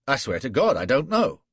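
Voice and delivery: high, loud frightened plea; desperate denial. Acted. Flashman denying to Gul, high and loud with fear. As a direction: insist through panic.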